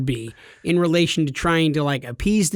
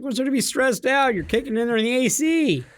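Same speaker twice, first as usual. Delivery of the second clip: higher, scoffing disbelief; mock disbelief; 8 semitones higher than usual. Teasing a friend about his office stress with higher, scoffing disbelief. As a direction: scoff at him as if the job is easy.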